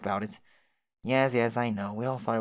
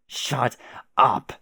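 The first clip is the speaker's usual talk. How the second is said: angry shout; 6 dB louder than usual. Acted. Jane yelling at oblivious Jake, furious loud shout. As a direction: split it, the second word blasted loud. Jane snaps again, louder.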